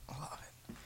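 soft whisper; hushed, very low-level aside; whispered fondness. Real, not acted. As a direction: whisper it almost to yourself. Repeats fond remark under breath.

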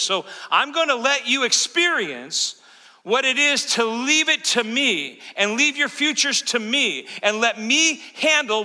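preaching as Jesus. Acted. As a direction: press each promise home with rising intensity.

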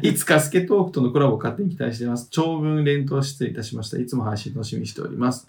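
measured reading of listener mail; letter read-aloud. Acted. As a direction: read the message out evenly.

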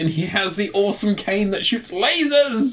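geek out over it; excited gushing. Real, not acted. Host gushing about an actor's film role, excited.

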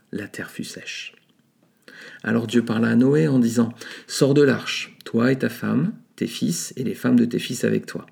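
steady, measured Bible reading aloud; lightly declaimed scripture reading. Acted. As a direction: read the passage as sacred text. Reads Genesis chapter aloud.

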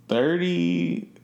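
sung out high and stretched; drawn-out high. Acted. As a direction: lift the word up and hold it. Announcing the big birthday number.

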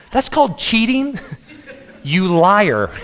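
amused accusation through laughter; laughing. Real, not acted. Preacher calling out the archer who moved the target, laughing. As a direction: laugh as you call out the cheat.

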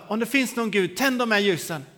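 retold plea with some force; acted challenge to God. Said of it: "satt framför några ljus och så sa jag".

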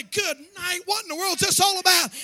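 mock shocked churchgoer. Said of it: "You say".

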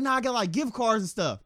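lightly voiced meek thief; thief explaining. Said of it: "He's like".

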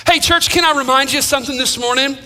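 ordinary talk, nothing marked

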